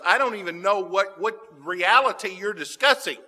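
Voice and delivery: mock bewildered Peter insisting he knows nothing; exaggerated denial. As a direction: ham up the baffled denial, like a glitching computer. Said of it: "He goes from, to".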